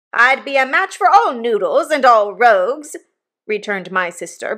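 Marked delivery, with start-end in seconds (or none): 0.1-3.0 high, loud scolding retort; mounting rage. A narrator's reading. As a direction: start working yourself into a fury. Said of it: "beginning to work herself into a mighty rage".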